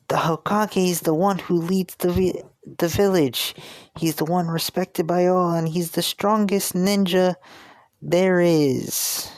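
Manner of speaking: put-on high-pitched earnest boy voice; proud kid explaining, pitched well up; Naruto. Boy explains the village leader to a pirate, high kid voice. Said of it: "Naruto says".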